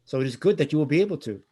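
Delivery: just a hint of a French accent, don't overdo it; touch of French accent. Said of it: "like, a touch of, like, a French accent".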